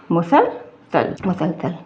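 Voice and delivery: मुसलसल spoken slowly, syllable by syllable; teacher modelling मुसलसल with clear s sounds; careful Urdu word. Shown as a demonstration. Urdu teacher slowly models the word मुसलसल for her students. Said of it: "इसका जो सही अल्फाज".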